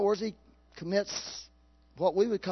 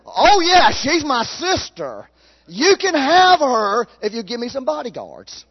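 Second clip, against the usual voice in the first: sly Abraham; 7 semitones higher, 11 dB louder than usual. Acted. Preacher voices Abraham offering wife.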